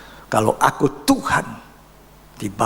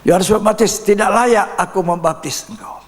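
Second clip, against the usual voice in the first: quoting John the Baptist; 8 semitones higher than usual. Retold or imitated. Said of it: "diceritakan Yesus datang kepada Yohanes".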